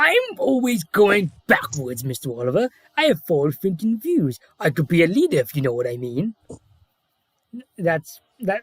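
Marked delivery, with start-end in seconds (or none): 0.0-6.3 put-on, hammy, swooping, sing-song cartoon character voice. Doing the best voice of a character from season five: Toad voice. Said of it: "I'll do my best voice for you now. It's I swear it, it's Toad from season five".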